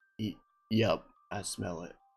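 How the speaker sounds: flat deadpan delivery. Player speaking as their character, looking up at another character, deadpan. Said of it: "Just like deadpan".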